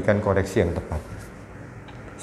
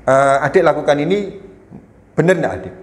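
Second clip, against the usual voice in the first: firm questioning; 3 semitones higher, faster than usual. Shown as a demonstration. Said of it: "kita dengan intonasi, Amarah itu maksudnya gini".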